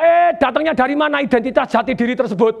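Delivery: retold "hey, where's that from?" protest; mock indignant parent. Father questioning his child's label, mock indignant.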